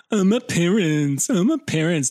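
lightly voiced valley girl; a hint of valley girl whine. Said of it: "talking like a valley girl".

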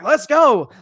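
punchy hyped-up pep-talk cry; fired up. Retold or imitated. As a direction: imitate a coach firing up the room. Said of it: "the room fired up".

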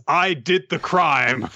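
slow, high-pitched proclamation for laughs; joke slogan readout. Pretend.

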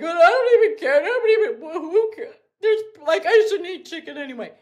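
mock the self-denying girl shrugging it off; dismissive girl voice. Girls brushing off their own wants, mock girly shrug. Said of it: "girls are like".

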